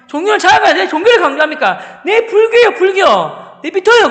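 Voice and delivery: very high, loud defiant declaration; heated protest. Retold or imitated. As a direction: argue back at full volume. Student's heated protest to teacher. (높은 목소리로 격하게 항의)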